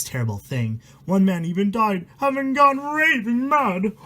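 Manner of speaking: steady reading of a spooky rhyme; rhyming story reading. A narrator's reading. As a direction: read the verse out like a bedtime horror tale. Reads rhyming horror book aloud.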